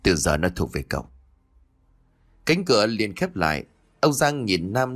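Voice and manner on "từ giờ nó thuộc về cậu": commanding. A narrator's reading. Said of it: "như ra lệnh".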